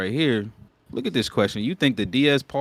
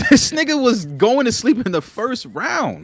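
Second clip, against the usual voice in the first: laughing; 12 semitones higher, 5 dB louder than usual. Real, not acted. Arguing while laughing.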